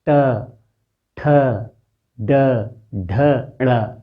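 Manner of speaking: ट, ठ, ड, ढ, ण said with the tongue curled back; teacher showing the retroflex row; retroflex letter demo. Shown as a demonstration. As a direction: curl the tongue and sound out ट ठ ड ढ ण. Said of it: "जीभ को थोड़ा सा मोड़िए".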